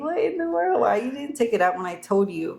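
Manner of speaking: mock-indignant scolding of a partner; exasperated. Retold outburst at partner over trash.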